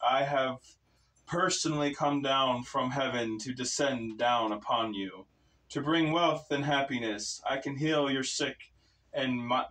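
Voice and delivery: a lightly voiced false god; menacing bellow. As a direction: proclaim like a mildly menacing lord. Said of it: "His voice bellowed, but it sounded ever so slightly menacing".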